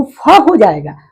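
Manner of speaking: फ said with its vowel अ fully voiced; open, held फ; full-vowel letter. Shown as a demonstration. Teacher warns pupils about the added vowel, full फ. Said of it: "फ में अ मिला हुआ हो जाएगा".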